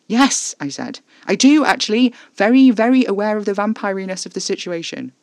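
high, loud, out of breath; breathless sarcasm. A narrator's reading. Winded narrator answering Casper, loud and sarcastic. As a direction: snap back sarcastically.

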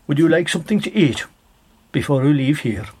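lightly voiced stranger. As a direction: sweeten the invitation. Stranger offers food to Dennis.

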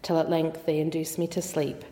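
measured, even poem recitation; poem reading. Acted. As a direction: read the verse aloud with steady, deliberate phrasing. Reads a poem aloud.

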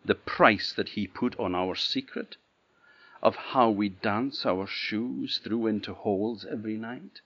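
lofty, disdainful princess; loud and haughty, a princess scorning a servant. Acted. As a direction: look down your nose at the gardener. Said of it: "in a rather a haughty voice".

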